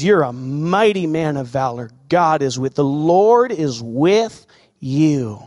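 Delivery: slow, intimate reassurance; gentle angel. Acted. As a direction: tell him gently he is mighty, drawing it out. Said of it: "the angel of the Lord shows up and says".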